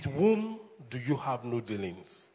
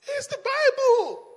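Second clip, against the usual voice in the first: much higher, louder, slow cry; emphatic exclaim; 8 dB louder, slower than usual. Real, not acted. Pastor defending his words to the church, loud high exclaim. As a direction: proclaim it with full force.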